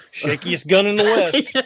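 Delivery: giggling movie-quote callback; laughing Gene Wilder quote. Retold or imitated. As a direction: laugh your way through the famous line. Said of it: "I'd be like Gene Wilder on".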